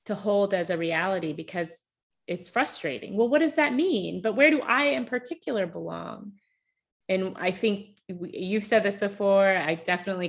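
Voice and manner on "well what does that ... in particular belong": higher-pitched, insistent doubter's questions; frustrated questioning. Acted. Speaker acting out a frustrated seeker of belonging, questioning. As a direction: voice someone unsatisfied and wanting specifics.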